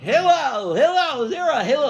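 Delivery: high loud fast call, no respect; the pest hollering for Hillel at his door; rude calling out. Acted. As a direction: yell for him from outside the door. The man calls for Hillel again.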